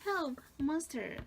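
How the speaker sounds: slow, high, loud cry for help; hammed-up panic; mock frightened cry. Teacher rereading the rabbit's scared cry.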